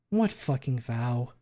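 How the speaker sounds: slow, heavy demand. Acted. Fang demands to know about the vow, slow and hard. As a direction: lean on each word, demanding. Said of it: "she demands".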